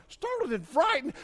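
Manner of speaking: high, disbelieving "Startled and frightened?"; incredulous. Retold or imitated. Preacher reacting to the verse, high and incredulous. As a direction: question it like it makes no sense. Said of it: "I was like".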